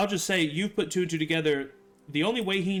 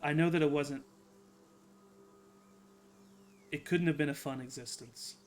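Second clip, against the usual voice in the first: earnest; 5 dB quieter than usual. Acted. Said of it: "maybe the most earnest".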